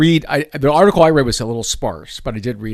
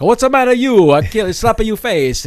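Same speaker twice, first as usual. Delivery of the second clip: much higher, louder hammed-up stereotypical Italian American accent, slowing at the end; 10 semitones higher, 6 dB louder than usual. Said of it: "stereotypical kind of Italian voices".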